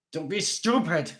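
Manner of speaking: high bellow. A narrator's reading. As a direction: bark the warning. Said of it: "Gannon Haas bellowed".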